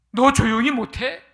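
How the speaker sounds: loud mock scolding, pitch rising. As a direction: act out a crowd sharply hushing someone. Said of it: "하면서 꾸짖었습니다". (크게 꾸짖는 흉내)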